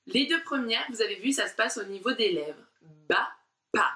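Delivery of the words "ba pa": Ba and pa popped hard with the lips; exaggerated syllables. Shown as a demonstration. Teacher showing pupils how to exaggerate lip sounds. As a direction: burst Ba, pa out of closed lips. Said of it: "je veux que vous exagériez comme ça".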